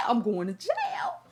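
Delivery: slow, laughing despair; half-joking laughing resignation. Real, not acted. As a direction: laugh it out slowly. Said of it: "laughing at own anger".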